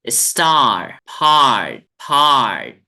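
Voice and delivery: स्टार and हार्ट said loud with a curled r; model drill words, loud. Shown as a demonstration. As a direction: drill हार्ट loudly for the class. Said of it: "एक बार और".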